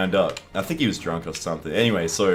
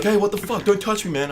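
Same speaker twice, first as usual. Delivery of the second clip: high, loud imitation of a panicked kid; mock-alarmed, pitched way up; retold protest; 14 semitones higher, 5 dB louder than usual. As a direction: imitate a kid yelling back off. Kid protesting in acted quarrel.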